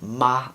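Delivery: "ma" held on a level pitch; first tone. Shown as a demonstration. Teacher previewing Mandarin tones, flat first-tone "ma". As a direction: say "ma" flat, with no rise or fall. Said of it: "that would be the first tone".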